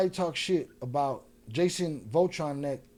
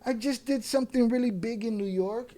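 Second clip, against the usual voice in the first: higher mimicked boast; mocking bragger; 4 semitones higher than usual. Mimicking a man whose insecurity shines, mocking boast. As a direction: parrot his insecure bragging, pitched up. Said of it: "his insecurity shines".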